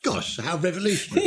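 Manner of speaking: dry mock amazement through a laugh; laughing sarcasm. Real, not acted. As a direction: tease her with a chuckle. Host teases guest's Americanism.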